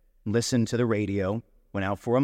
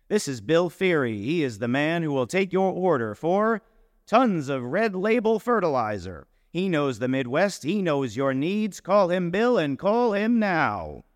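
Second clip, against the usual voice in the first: raised, salesy ad-pitch read; ad copy voice; 6 semitones higher than usual. Acted. Narrator reads his fertilizer ad copy as a pitch. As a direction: sell it like a radio ad, slowing at the end.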